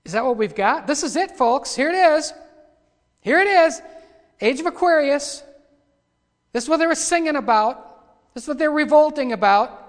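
loud, high-pitched declamation; full-force preaching. Acted. Preacher presenting the Age of Aquarius to his folks, in loud preaching. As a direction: call it out to the whole congregation.

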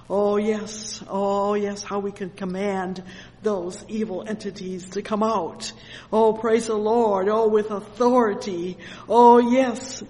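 loud, exultant church exclamations; full-force preaching. Real, not acted. Preacher rejoices in authority over evil, full-force preaching. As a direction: cry out praise with swelling force.

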